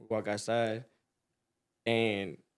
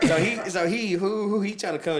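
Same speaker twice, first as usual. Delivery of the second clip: laughing through words; 6 semitones higher, 3 dB louder than usual. Real, not acted. Laughing while retelling.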